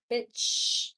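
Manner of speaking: breathy whispered punchline. Real, not acted. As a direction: drop it to a sly whisper.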